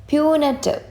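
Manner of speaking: "Punitive" high, falling on the last syllable; pronunciation demo. Shown as a demonstration. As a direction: model "Punitive" clearly for learners. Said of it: "ഈ വേർഡിൻ്റെ pronunciation".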